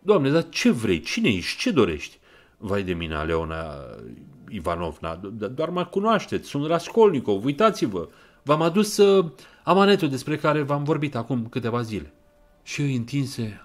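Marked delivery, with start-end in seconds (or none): 0.0-2.2 higher, louder startled questions; old woman blurting in alarm; alarmed old pawnbroker firing questions; sudden outburst. Acted. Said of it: "limba ei se dezlăgă brusc". 2.6-12.1 nervous stammer. Acted. Nervous killer stammers a pretext.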